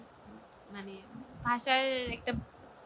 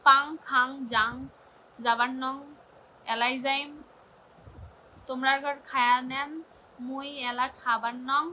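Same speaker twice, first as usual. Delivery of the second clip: attempted Rangpuri dialect. Shown as a demonstration. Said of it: "But মুই কবার পাং রংপুরের ভাষার কথা".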